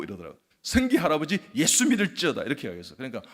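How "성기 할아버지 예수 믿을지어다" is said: high, booming command to believe; loud proclamation. Retold or imitated. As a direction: proclaim it like a preacher. Proclaims faith at the grandfather.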